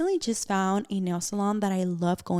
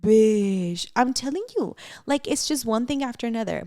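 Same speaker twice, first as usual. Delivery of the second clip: loud, higher, fed-up exclamation; exasperated outburst; 3 semitones higher, 3 dB louder than usual. Real, not acted. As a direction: vent it, one thing after another. Exasperated at the mowing noise.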